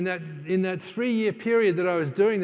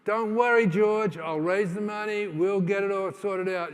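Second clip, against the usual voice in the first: louder and higher, brushing worry aside; eager reassurance; 3 semitones higher, 4 dB louder than usual. Retold or imitated. Reassuring George he'll raise the money, loud and keen. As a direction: push past his doubt with loud confidence.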